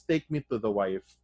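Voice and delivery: even, unhurried order; a lightly voiced chill Defarge; calm and mechanical. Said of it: "he's talking so calmly and mechanically".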